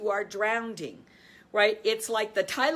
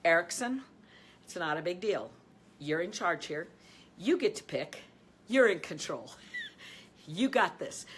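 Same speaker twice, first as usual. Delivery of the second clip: calm rational self-talk; 2 semitones lower than usual. Shown as a demonstration. Coach speaking to herself as her coach did, calm. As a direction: talk yourself down gently. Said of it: "talk to yourself in a calm, quiet, rational way".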